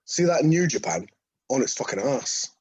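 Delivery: Marty Jones impression. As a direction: bark it like the old wrestler Marty Jones. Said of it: "here's some Marty Jones quotes".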